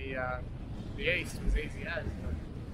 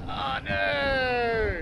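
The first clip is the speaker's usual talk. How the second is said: oh no; 9 semitones higher, 8 dB louder than usual. Real, not acted. Watching car fail dune climb.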